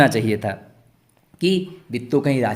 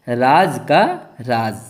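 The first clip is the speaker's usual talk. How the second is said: slow reading aloud; 4 dB louder, much slower than usual. Shown as a demonstration. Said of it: "क्या लिखा है?".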